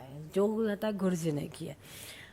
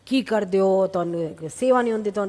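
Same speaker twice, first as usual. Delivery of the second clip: a scolding guru, voiced a bit louder; mildly mock the guru's angry telling-off; retold scolding; 2 semitones higher, 7 dB louder than usual. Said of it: "ज़ोर ज़ोर से बोला".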